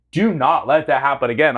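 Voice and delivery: mild retold stern order; mock scolding. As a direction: imitate her laying down the rule. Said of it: "thirty seconds of scolding".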